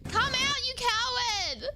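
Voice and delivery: playful battle cry at a hiding monster; mock taunting shout. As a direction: goad the creature out, half joking. Taunting the creature to emerge.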